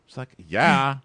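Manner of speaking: very high, loud, forced cheerful squeal; fake happy girl. Mocking a jealous girl, very high fake cheer. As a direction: squeal it with fake joy and a laugh. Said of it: "She goes".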